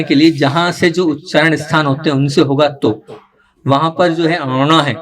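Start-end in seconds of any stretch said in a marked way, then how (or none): 4.4-4.8 "अणोना" as the retroflex nasal ण, not dental न; tongue-tip up and back on "अणोना". Shown as a demonstration. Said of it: "अणोना का जो उच्चारण होता है मूर्धा से".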